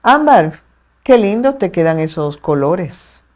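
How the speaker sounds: drip irony onto the praise; fake-sweet, sarcastic compliment. Shown as a demonstration. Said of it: "Mi intención es ser sarcástica".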